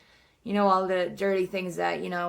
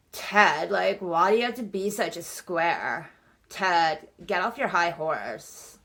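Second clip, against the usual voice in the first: mean and douchey. Retold or imitated. Classmates turn on Ted for objecting, mean and douchey. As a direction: mockingly imitate scornful classmates. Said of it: "so mean to him and douchey".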